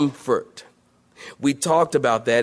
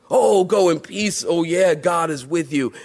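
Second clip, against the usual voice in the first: mock priest. Mocking the hireling priest again.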